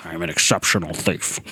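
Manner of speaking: a poor stab at a suave British villain; terrible Alan Rickman. Retold or imitated. Imitating Hans Gruber for the friends, low and hammy. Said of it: "That is a terrible Alan Rickman".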